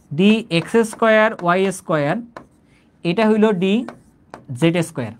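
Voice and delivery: drawn out, letter by letter; slow dictation. Shown as a demonstration. Teacher slowly dictating d orbital names to students. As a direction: spell the names out for note-taking.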